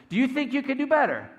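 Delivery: high, loud outburst as he snaps; acted angry yell. Meek player snaps at his coach, yelling. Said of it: "he starts yelling".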